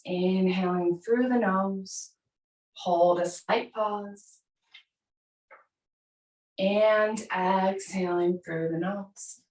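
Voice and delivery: calm, measured meditation guidance with long pauses; guided breathing meditation. Real, not acted. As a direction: lead them gently through each breath, unhurried. Leads seated breathing meditation.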